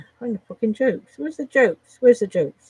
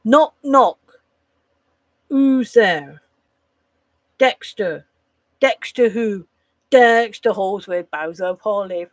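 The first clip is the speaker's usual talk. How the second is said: loud, proud punchline delivery; punchy joke telling; 5 dB louder, slower than usual. Shown as a demonstration. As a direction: sell the knock-knock joke with full energy. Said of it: "Not like".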